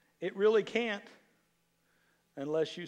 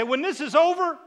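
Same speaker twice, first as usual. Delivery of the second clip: booming declaration; 3 semitones higher, 5 dB louder than usual. Shown as a demonstration. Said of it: "Look at James and say".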